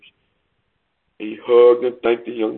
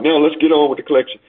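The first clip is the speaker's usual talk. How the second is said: quick, higher-pitched call; lightly acted impatient shout, rushed and pitched up; mild shout; 4 semitones higher, faster than usual. Man in the second row hurrying the auction, mild shout. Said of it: "The man in the second row shouted".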